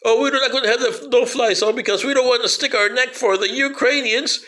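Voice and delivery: whispered parody of timid Americans; mock Americans. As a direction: sneer it in a hushed voice. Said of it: "And you Americans".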